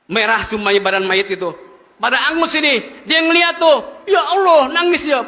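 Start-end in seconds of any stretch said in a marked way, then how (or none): 3.0-5.3 shocked narration. Acted. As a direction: tell it as if you saw the burnt body yourself. Preacher narrates the shock vividly. (kaget, suara tinggi dan keras)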